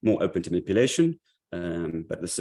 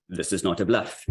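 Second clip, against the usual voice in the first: put-on Russian accent. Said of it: "it's a terrible, terrible Russian accent".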